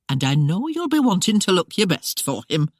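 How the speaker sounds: lightly voiced country housekeeper, a touch quick; urging her mistress along, lightly voiced; housekeeper Aggie. Housekeeper hurrying the bride to get up, light eager voice.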